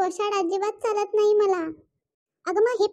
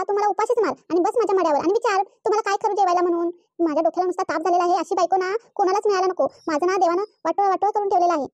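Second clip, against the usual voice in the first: husband's rapid angry outburst at his wife; exasperated rant; faster than usual. Acted. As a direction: vent at the stubborn wife, words tumbling out.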